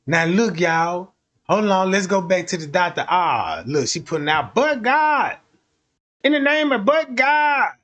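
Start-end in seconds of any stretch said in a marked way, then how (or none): 4.5-7.7 mock preacher cry. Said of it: "that lady be screaming when she say it".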